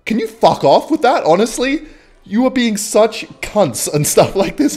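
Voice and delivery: imitating an outraged neighbor telling them off; mock angry neighbor. Neighbor abuses the new tenants, mock angry and high.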